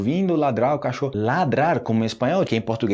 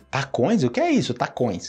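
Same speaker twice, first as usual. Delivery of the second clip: puzzled Brazilian reader. Retold or imitated. Brazilian reader meeting an unknown word, mock confused. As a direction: imitate a baffled reader. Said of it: "Uma pessoa do Brasil que não sabe espanhol".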